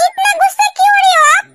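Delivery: laughing playful jab; laughing tease. Acted. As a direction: poke fun at his anger. Teasing angry husband.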